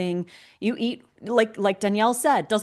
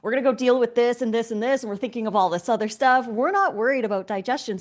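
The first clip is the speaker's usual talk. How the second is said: raised, brisk, louder mock announcement; lightly voiced busy digestion; 4 semitones higher, 4 dB louder, faster than usual. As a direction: act like an overloaded body too busy to bother. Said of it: "your digestion is like".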